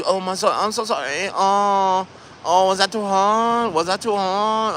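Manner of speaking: high sing-song mock Asian accent; fake Asian accent. Masseuse checking on client mid-massage, mock Asian accent. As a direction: mimic her put-on Asian accent, high-pitched. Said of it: "why was she talking like an Asian masseuse".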